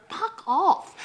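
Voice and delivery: mock fuck off. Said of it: "I just wanna go".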